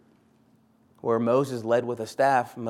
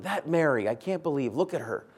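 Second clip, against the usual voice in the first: rising, louder mock grumble of an overworked sister; indignant Martha; 5 semitones higher, 6 dB louder than usual. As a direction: huff about lazy Mary, climbing in pitch and volume. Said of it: "Martha's sitting there going".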